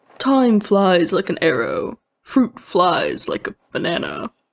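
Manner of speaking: put-on male voice. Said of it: "sounds like you were doing a guy's voice".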